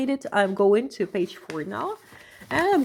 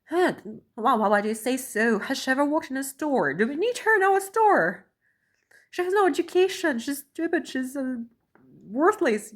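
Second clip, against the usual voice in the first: scornful gossip; 3 semitones higher than usual. Retold or imitated. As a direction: ham up their contempt. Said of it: "They were like".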